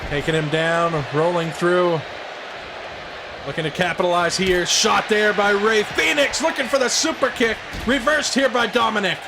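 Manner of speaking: wrestling announcer call; play-by-play commentary. Acted. Plays the commentator.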